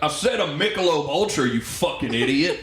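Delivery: hammed-up irritated drinker; irate outburst. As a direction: snap it out as a mock-angry customer. Acted irate drinker in show.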